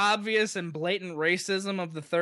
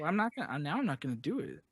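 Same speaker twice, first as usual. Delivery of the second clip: whispered aside; 4 semitones lower, 7 dB quieter, faster than usual. Real, not acted. Co-host preparing for an impression, whispering. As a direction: whisper so the take isn't spoiled.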